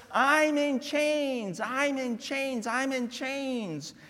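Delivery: slow, fading repeated lament; Paul's lament. Acted. Pastor voicing Paul in prison lamenting. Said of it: "He says over and over".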